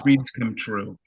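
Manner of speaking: light Bronx accent impression; a hint of a Bronx accent, kindly. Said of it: "in her beautiful Bronx accent".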